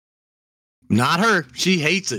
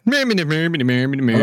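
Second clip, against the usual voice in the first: Swedish chef impression. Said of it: "the Swedish chef".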